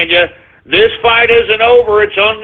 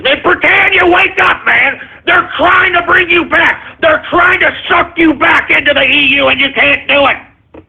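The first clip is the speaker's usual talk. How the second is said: rallying shout; 8 semitones higher than usual. Real, not acted. Rallying the British to wake up.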